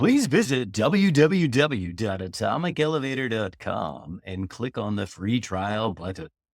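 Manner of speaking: very slow, drawn-out radio announcer voice. Telling people where to go online, using a put-on radio voice. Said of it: "This is where I get to use my radio voice".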